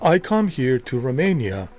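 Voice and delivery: mock Keanu doing a bad British accent, pitch jumping up; hammed-up posh British accent; terrible British accent. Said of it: "with a terrible British accent".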